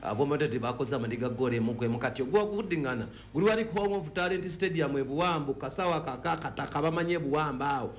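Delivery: ordinary talk, nothing marked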